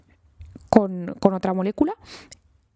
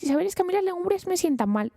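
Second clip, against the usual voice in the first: complaining listener; 9 semitones higher than usual. Pretend.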